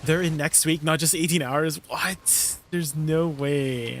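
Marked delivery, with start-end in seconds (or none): 1.9-4.0 disbelief. Real, not acted. Shocked at timezone.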